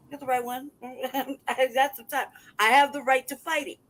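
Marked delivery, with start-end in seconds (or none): 0.1-2.3 laughing taunt. Real, not acted. Taunting the landlord.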